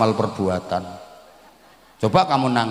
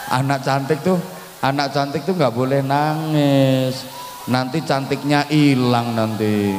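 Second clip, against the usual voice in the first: coaxing; 2 semitones higher than usual. Real, not acted. Preacher tells a pretty child not to cry, coaxing. Soothing a crying little girl.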